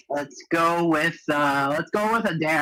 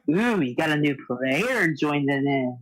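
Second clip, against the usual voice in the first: seductive voice; 6 semitones lower than usual. Pretend. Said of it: "talk in a seductive voice".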